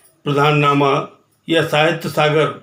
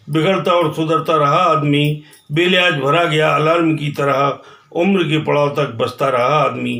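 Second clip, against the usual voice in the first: rhythmic verse, lifted opening, falling refrain; poem recitation. Acted. Poet likens man to a clock, rhythmic recitation. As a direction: recite each line evenly and let the refrain drop.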